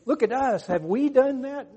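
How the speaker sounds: loud, high-pitched haughty challenge; self-important religious leaders. Acted. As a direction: hold yourself up as the standard. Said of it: "They set themselves as the standards".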